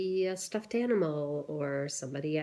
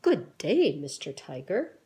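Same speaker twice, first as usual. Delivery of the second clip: louder, stiffly proper society voice; prim proper greeting; 5 dB louder than usual. Acted. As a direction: greet him like a very proper gentleman. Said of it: "And they talk like this".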